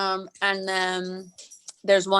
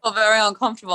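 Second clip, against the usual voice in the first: dog voice; 4 dB louder, much faster than usual. Acted. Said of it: "I start talking like this".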